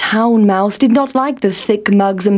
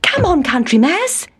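yelling; 6 semitones higher than usual. A narrator's reading. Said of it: "he yelled".

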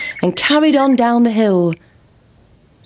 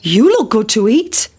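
cockerel. Acted. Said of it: "said the cock".

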